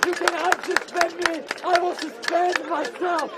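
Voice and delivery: hoarse shouting with a breaking voice; hoarse cry. Real, not acted. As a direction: cry out through a worn-out voice. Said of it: "my voice is shot".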